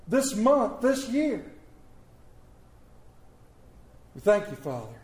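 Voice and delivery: earnest prayer, phrase by phrase; pulpit prayer. Acted. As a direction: pastor praying over the congregation, earnest. Leads the congregation in prayer.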